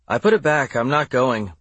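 put-on stubborn young girl voice; defiant little girl. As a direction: dig in your heels like a kid. Child Sydney refuses.

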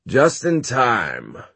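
bright, slow, drawn-out greeting; cheerful cry. Acted. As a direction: call it out gladly, stretched. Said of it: "he cried".

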